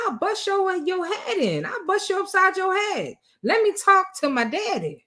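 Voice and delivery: imitated threat. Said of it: "Lamont would have told her".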